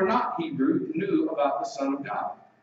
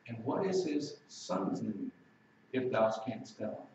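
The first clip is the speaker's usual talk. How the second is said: hushed question; 6 semitones lower, 8 dB quieter than usual. Acted. Preacher's hushed repeated question.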